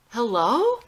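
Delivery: shouting down a breaking phone line; frantic shout. Acted. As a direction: yell to be heard on a bad line. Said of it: "screams into the phone".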